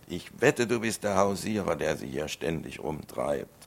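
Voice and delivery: mock furious farmer yelling; angry yell. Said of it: "er brüllt und schreit".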